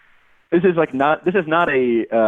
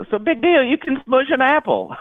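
mock wrestler voice, much higher; imitating the wrestler; 14 semitones higher than usual. Fan imitating her favorite wrestler's sad promo, high mock voice. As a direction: ham up the little wrestler's taunt. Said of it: "that guy's like".

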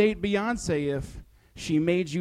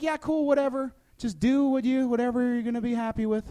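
higher breezy parent; 6 semitones higher than usual. Retold or imitated. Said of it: "I'm like".

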